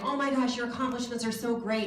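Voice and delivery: high, gushing fan impression; put-on high-pitched admiration; mock gushing. Voicing fans gushing at her husband.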